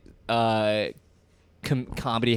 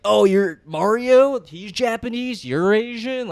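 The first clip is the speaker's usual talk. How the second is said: mock comic impression; 7 semitones higher, slower than usual. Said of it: "leaned into this".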